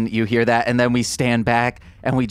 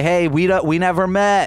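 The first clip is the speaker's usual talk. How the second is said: shouting; 6 semitones higher than usual. Acted. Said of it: "I shout out to Vera".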